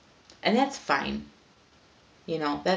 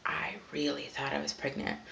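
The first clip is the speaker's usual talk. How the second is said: whispered; 6 dB quieter than usual. Shown as a demonstration.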